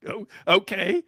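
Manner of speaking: a hint of a taken-aback reply; bemused ballplayer. Batter answers the little girl's cheer, mildly bemused. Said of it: "gets this look on his face like".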